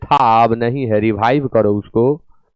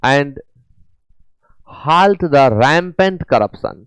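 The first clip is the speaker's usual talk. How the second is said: very slow English, each word apart; careful classroom reading; slow dictation reading; 2 semitones higher, much slower than usual. Shown as a demonstration. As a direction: read the phrase out slowly. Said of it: "reads question sentence slowly".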